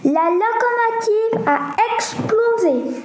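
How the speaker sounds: voix bien plus aiguë, paniquée; exclamation affolée. A narrator's reading. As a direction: annonce la catastrophe, affolé. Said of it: "un contrôleur affolé s'exclama". (le contrôleur alarme les passagers, voix aiguë et affolée)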